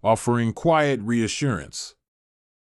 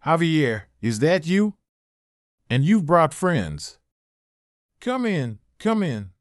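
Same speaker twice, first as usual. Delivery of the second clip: lightly voiced frail grandmother, higher; a thin, higher old woman's voice; 5 semitones higher than usual. A narrator's reading. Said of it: "a frail voice responded".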